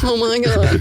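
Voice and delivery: put-on frightened child. Small child facing huge dad.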